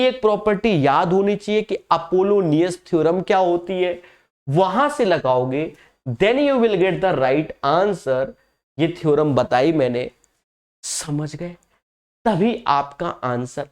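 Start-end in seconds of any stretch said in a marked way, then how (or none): 6.1-8.3 very slow, drawn-out English sign-off; slow catchphrase. Acted. Teacher to students giving the method's payoff, slow drawn-out catchphrase. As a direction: stretch every word out like a signature line.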